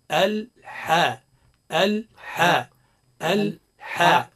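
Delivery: الحاء drawn out slowly with a clear breathy ḥ; correct ḥā'. Shown as a demonstration. Teacher drills the sound ḥ in الحاء, slowly. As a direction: stretch the ḥ of الحاء, slow and clean. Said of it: "الصواب هو".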